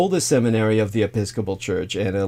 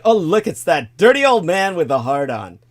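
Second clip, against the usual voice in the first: mocking girls' voice; 5 semitones higher, 9 dB louder than usual. Mock quote of the girls.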